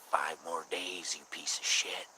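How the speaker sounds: slow, drawn-out taunt that drops to a whisper on the insult; mock threat, slowly spelled out; imitating a menacing troll. Troll calling at night with a death countdown, slow whispered menace. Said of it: "and they'd say".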